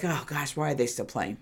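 low, soft recalled grumble; muttered exasperation. Retold or imitated. Viewer grumbling at a disliked team, low muted exasperation. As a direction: grumble it low and under your voice. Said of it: "I was just like".

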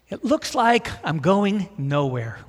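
slow, whiny sulk; whiny teen voice. Retold or imitated. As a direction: whine it out like a let-down teenager. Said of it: "in that kind of whiny voice, high-pitched thing".

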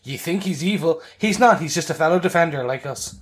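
hammed-up English accent; mock English accent. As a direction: argue it in playful fake English. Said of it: "I love your English accent".

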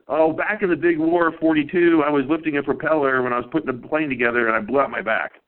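a hint of an old lady reminiscing; mild old-woman voice recalling the war; old patient voice. Elderly patient voiced telling history.

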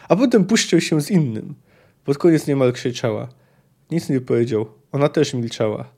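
lively audiobook reading of a novel; story narration. A narrator's reading. Narrator reading a Witcher passage to listeners, lively story reading. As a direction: read the scene aloud like an audiobook.

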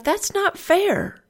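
high, slow, whiny "That's not fair."; stretched-out childish protest, pitched high; indignant complaint. Retold or imitated. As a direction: plead it like a wronged kid, way up high. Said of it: "And I thought".

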